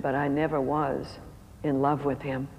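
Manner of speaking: low, quiet, a touch of tears; tearful confession. Retold or imitated. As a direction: admit it softly, near crying. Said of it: "she burst into tears".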